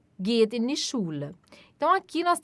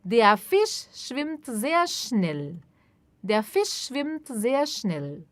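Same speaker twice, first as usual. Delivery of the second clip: very slow, clear and even; slow model sentence; much slower than usual. Shown as a demonstration. Teacher modelling sentence slowly for repetition. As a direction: spell it out slowly for learners. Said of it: "teacher models sentence".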